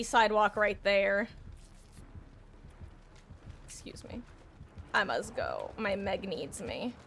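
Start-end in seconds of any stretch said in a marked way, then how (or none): 3.7-6.9 mock dramatic exit. Streamer playing a noble hero leaving the match, mock-grand. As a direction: announce your exit like a hero.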